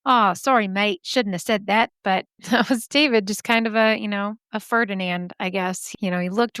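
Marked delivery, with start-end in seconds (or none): 0.0-1.9 put-on a sheepish Aussie apology in an Australian accent. Guy who just got punched apologizes in a mock Australian accent. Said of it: "they're Australian".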